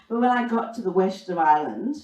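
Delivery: ordinary talk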